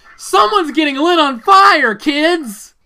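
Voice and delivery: mock, giddy, loud, high childlike excitement. Retelling what a chipper announcer said, imitating giddy excitement. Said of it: "he was like a kid on Christmas morning".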